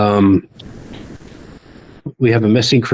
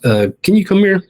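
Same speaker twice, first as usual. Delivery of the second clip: NPC officer asking; 12 semitones higher than usual. Acted. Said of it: "and she says".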